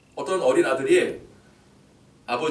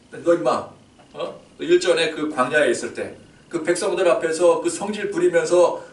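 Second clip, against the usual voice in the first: louder, scolding God; 3 semitones higher, 4 dB louder than usual. Acted. God scolding Moses for his temper, louder and stern.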